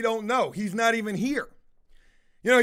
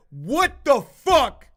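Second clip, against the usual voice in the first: angry; 5 dB louder, slower than usual. Retold or imitated. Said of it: "I said".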